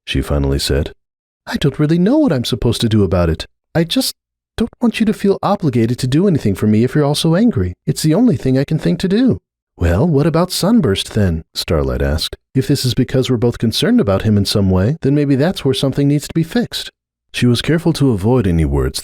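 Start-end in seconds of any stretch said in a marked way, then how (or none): 1.5-9.4 put-on higher, uneasy young mare's voice; Cupcake, uneasy mare. Cupcake telling Starlight she feels the rift, higher uneasy voice. 9.8-16.9 lightly raised, careful mare's voice; Starlight, careful. Acted. Starlight carefully raising Sunburst with Cupcake, lightly voiced.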